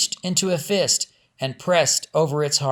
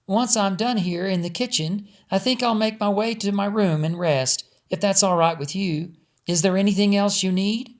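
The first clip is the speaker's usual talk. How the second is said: higher polite maid voice; lightly voiced Nellie; 5 semitones higher than usual. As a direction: offer help gently before resting.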